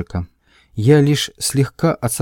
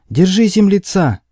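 shout; 8 semitones higher, 4 dB louder than usual. Acted. Extremists shouting at the narrator.

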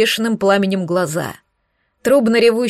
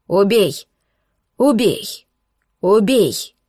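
мерное скандирование, слегка громче; чеканить, как кровожадная толпа; скандирование толпы; slower than usual. Acted. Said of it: "Страшно скандировало сборище". (понарошку скандирующее сборище)

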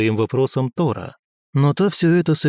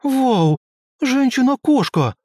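put-on much higher, delighted little girl's shriek; child's voice; 12 semitones higher, slower than usual. A narrator's reading. Little girl spots a cat woman, high amazed child's squeal. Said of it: "восклицание детским голосом".

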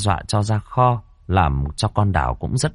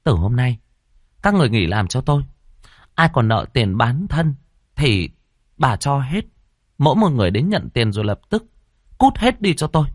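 a landlady dismissing all servants, higher; mistress's stern announcement; 5 semitones higher than usual. Acted. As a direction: proclaim it to the staff, sharp and firm. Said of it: "Bà tuyên bố".

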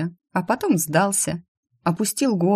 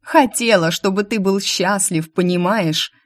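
shouting; 4 semitones higher than usual. Acted. Still yelling at the demon.

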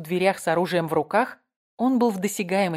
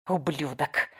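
low, softer venomous hiss; 4 semitones lower, 4 dB quieter, slower than usual. A narrator's reading. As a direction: spit the word out in a hiss. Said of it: "прошипела она". (прошипела со злобой)

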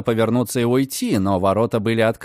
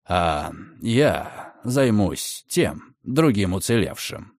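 menacing gentleman; 4 semitones lower, much slower than usual. Acted. Redfern vows to hunt the survivor, low and slow.

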